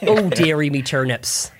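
slow mock country accent; easy, well-worn put-on country accent; practised rustic accent. Shown as a demonstration. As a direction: draw it out in a rustic halfling accent. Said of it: "I did do this accent for".

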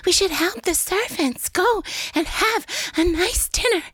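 a light wheezy earnest sister; Cynthia Nixon impression. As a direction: sound like you need an inhaler. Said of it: "Cynthia Nixon talks like this".

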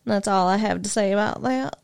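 lightly imitated Southern accent; Forrest Gump. Quoting a film to co-host, attempted Southern accent. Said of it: "Forrest Gump".

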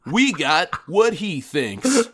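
slow, dramatic TV narrator; documentary narrator. Pretend. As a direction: draw it out like a cable documentary. Parody narrator continues.

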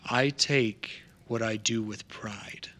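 slow, measured, mildly stern contact; stern reply. Acted. Contact answering an angry warning, lightly stern. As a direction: answer a threat with slow restraint. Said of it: "he just gives you a stern look".

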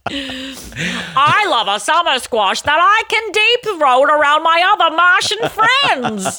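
drawn-out hammy spaceman; slow, hammed-up alien voice; slow mock alien voice.

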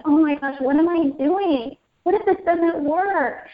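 retold worry. Mom driving away from her crying son, retold worried thoughts. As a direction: relive a rising wave of doubt.

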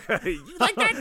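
high, loud mock bedroom voice; hammed-up sultry voice. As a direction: overplay the seductive question, laughing. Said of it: "we'll go to the tape".

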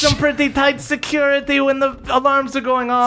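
high, even computer voice; calm ship computer. Acted. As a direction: speak like a polite ship AI. Hacking computer voice speaks.

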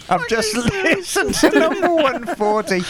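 trying to read the email through real laughter; laughing while reading. Real, not acted. Reader cracking up over a listener's email, laughing through it.

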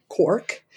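Cork with a big, rounded O. Shown as a demonstration. Guide showing listeners the Cork accent, long rounded O in Cork. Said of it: "Cork accent is known for being very rounded".

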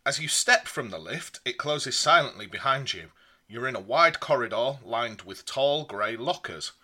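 reading a gamebook aloud; lively storybook read-aloud; story narration. A narrator's reading.

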